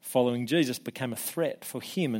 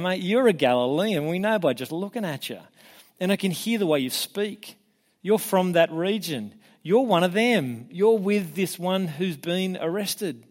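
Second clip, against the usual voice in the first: higher, insistent confrontation; mock accusation; 5 semitones higher than usual. Bystanders telling Peter he is a Galilean, accusing. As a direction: press the accusation, imitating a bystander.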